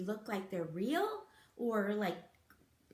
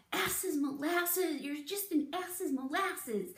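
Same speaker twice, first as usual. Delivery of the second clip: mock mad insult; 5 semitones higher than usual. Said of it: "I'm really, really mad, I say".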